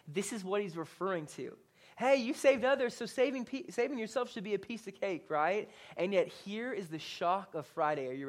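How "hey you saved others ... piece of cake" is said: higher-pitched scoffing jab; mock sarcastic. Ruler scoffs at Jesus on the cross, sarcastic. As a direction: toss it off as a mild taunt. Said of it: "the ruler asked this sarcastically".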